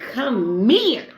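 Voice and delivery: high, loud come-hither call; inviting woman. Retold or imitated. A woman who wants him calling him close. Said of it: "She be like".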